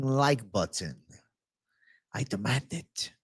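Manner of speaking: joking tyrant ordering chat to like; playful mock dictator demands; mock demanding. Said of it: "all jokes aside".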